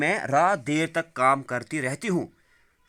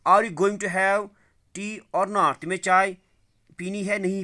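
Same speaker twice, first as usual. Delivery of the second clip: higher, louder surprised question; 6 semitones higher, 4 dB louder than usual. Acted. Wife asks husband about tea, surprised and raised. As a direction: ask it as if amazed he has not answered. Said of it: "مگر اس نے حیرانگی سے، حیرانگی میں کہا".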